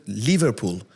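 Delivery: "Liverpool" said slowly with a long first vowel; mispronunciation. Retold or imitated. Man recalling his mistakes as a bullied learner, mispronouncing "Liverpool" as LEE-verpool. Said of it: "pronounced anything wrong".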